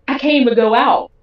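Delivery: mildly heated retort; retold indignant protest. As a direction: retell standing your ground, stressed. Acted quarrel with partner.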